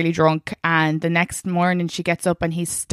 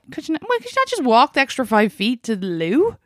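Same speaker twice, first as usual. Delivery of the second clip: exasperated; 7 semitones higher than usual. Retold or imitated. Quoting herself to ex.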